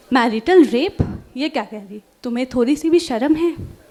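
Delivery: fast, dramatic poem reading; poem recitation. Acted. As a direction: perform the poem with feeling. Recites her own poem.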